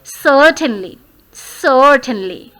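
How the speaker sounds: "certainly" stressed on a long "sir" sound; first-syllable stress. Shown as a demonstration. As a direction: lean on the start of "certainly". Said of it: "you always place stress on sir". ("certainly" के पहले हिस्से पर ज़ोर)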